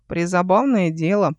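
plain reading voice

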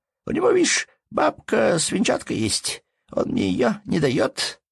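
put-on high, slow nasal little-boy whine; whining through the nose. A narrator's reading. Little boy complaining to father about a playmate, nasal whine. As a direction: complain nasally like a small child. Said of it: "отвечал Ваня гнусливо".

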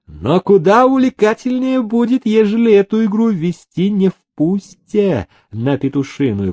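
put-on high, eager sly young voice; scheming nephew. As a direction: lure him in, sly and eager. (хитрый нетерпеливый племянник)

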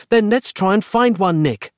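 high, exasperated-sounding mild yell; yelling back. A narrator's reading. Roz answering her friend's objections, yelling back. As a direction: call back urgently. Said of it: "she yelled back".

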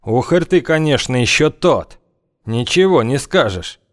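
high, ominous drawn out; sinister. Acted. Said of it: "зловеще произнёс он".

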